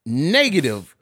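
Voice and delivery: loud, high outraged disbelief; shocked at the deductions, loud and high. Real, not acted. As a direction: shout it at the paycheck.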